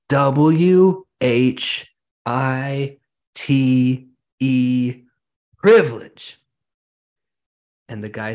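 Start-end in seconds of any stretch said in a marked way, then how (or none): 0.1-6.4 each letter drawn out, loud, building to a high shouted "privilege"; slow emphatic spelling rising to a loud high "privilege"; spelled out slowly. Retold or imitated. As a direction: spell it out letter by letter, then punch the word. Man spells out white privilege.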